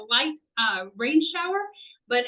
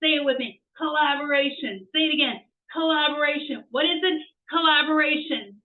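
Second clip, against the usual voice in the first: call-and-response drill; 2 semitones higher than usual. Shown as a demonstration. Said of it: "That's the word of the day".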